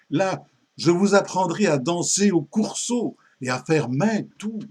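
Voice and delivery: animated poem recitation as a wooing music teacher; récitation de poème, Robin séducteur. Acted. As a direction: recite with lively, theatrical phrasing. (déclamation enjouée d'un professeur séducteur)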